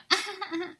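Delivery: high, put-on coquettish giggle; fake flirty laugh. Shown as a demonstration. Showing a friend her version, fake flirty laugh. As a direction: giggle flirtatiously, obviously faking it. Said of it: "just me being fake and flirty".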